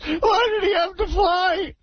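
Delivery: a hammed-up blubbering boss, lightly voiced; radio caller doing a weepy team owner, mock sobbing; mock weepy Steinbrenner. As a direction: play the tearful team owner, half laughing. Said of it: "We got Corky Steinbrenner".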